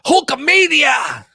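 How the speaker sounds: high, drawn-out ring announcer cry; slow, stretched-out cheer of the name; announcer call. Retold or imitated. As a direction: belt it out like a wrestling hype man.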